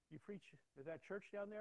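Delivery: loud, high-pitched questioning; retold challenge. Retold challenge from gang leader.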